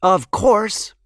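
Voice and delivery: a hint of a cheeky cat; the cat replying. A narrator's reading. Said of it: "the cat replied".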